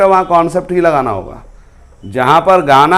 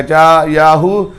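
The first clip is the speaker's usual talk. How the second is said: drawn-out mock film-hero cry; happy film hero; much slower than usual. Teacher imitating a happy hero in the jungle, drawn-out call. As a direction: stretch it out like a hero's happy call. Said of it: "hero बहुत खुश है तो क्या बोलेगा".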